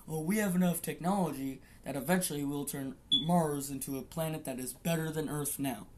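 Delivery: sing-song mock of a hyped promise; a light, sneering imitation of what they tell us; mocking quote. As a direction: parrot the official line with scorn. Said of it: "we're getting told all the fucking time".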